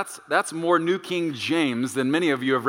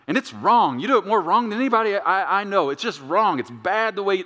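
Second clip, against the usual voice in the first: raised, insistent nagging; hammering criticism; 5 semitones higher, 3 dB louder than usual. Acted. Spouse hammering the way you do something, nagging. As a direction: hammer away like a fed-up spouse. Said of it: "they're just hammering the way you do".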